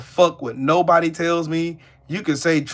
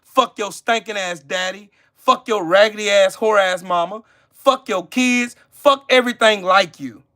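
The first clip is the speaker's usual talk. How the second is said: emphatic cursing; 4 semitones higher than usual. Real, not acted. Streamer curses out a doubting viewer, furious emphatic tirade. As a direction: spit each curse out at the viewer. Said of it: "An emphatic motherfuck you".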